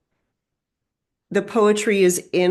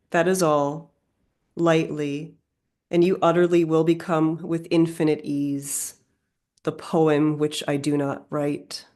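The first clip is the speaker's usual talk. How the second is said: poetry reading; 2 semitones lower than usual. Acted. Reading a loved E E Cummings poem to listeners, measured recital. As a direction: read the poem with deliberate pauses between phrases.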